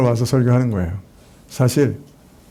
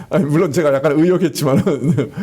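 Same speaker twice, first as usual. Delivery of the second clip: 웃음 섞인 해명; 멋쩍게 웃으며 인정하듯. Real, not acted. Laughing admission of paraphrase. (설교자가 교인들에게 웃으며 해명)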